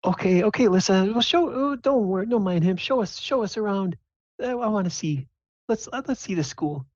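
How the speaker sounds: very high, hurried-sounding falsetto reassurance; smooth things over like a fussing mother; placating mom. Acted. Mom smooths over dad's grumpiness.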